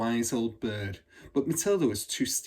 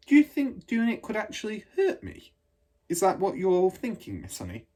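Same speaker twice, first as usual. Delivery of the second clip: put-on higher, worried child asking; a small girl afraid it might hurt her; anxious little girl; 9 semitones higher, 4 dB louder than usual. Matilda worried question.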